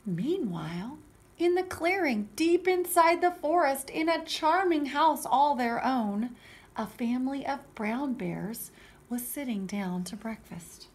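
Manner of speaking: animated storybook narration; story reading for children. A narrator's reading. Teacher reading Goldilocks to children, animated storytelling. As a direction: read it out clearly to little listeners.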